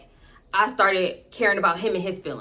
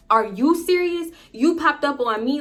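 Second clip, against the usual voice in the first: higher, indignant mock whine; mock victim; 5 semitones higher than usual. Boyfriend acting wronged when caught, mock indignant. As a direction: play him acting like the wronged one. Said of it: "his immediate reaction was kinda like".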